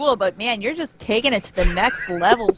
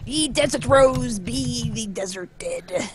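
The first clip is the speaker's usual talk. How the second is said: pirate voice; slower than usual. Acted. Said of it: "talking in a pirate voice".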